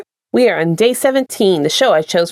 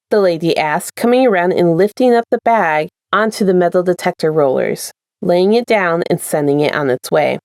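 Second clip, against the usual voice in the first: steady storyteller reading aloud; story narration; 2 semitones lower than usual. A narrator's reading. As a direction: read it like an audiobook chapter. Reads a fanfic aloud.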